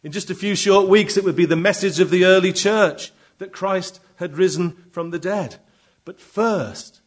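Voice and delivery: full-force preaching; preaching loudly. Acted. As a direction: proclaim it to the back pew. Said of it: "preaching at full force".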